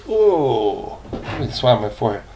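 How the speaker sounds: quick aside acting out the swab. Shown as a demonstration. Grandpa acting out the gentleman wiping his brow, quick and playful. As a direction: mime swabbing his forehead, speaking fast. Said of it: "that's what he does".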